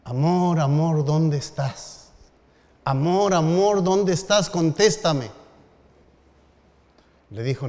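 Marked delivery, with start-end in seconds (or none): 0.1-5.3 retold shout. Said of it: "empezó a gritar".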